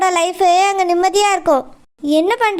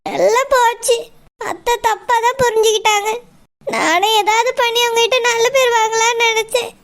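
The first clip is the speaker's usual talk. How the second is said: tearful. Acted. Daughter-in-law alone after scolding.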